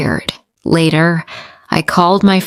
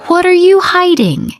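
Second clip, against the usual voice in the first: demanding; 12 semitones higher than usual. Acted. Daughter confronts her mother about her secret, demanding. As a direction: press her hard for the truth.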